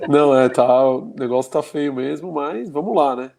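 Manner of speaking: stuffed-up nose from allergy; blocked nose. Real, not acted. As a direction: speak through a blocked nose. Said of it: "você tá péssimo dessa sua alergia".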